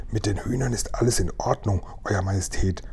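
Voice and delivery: soft, hushed reassurance; hushed servant's reply; whispering. A narrator's reading. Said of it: "flüsterte Tibbs".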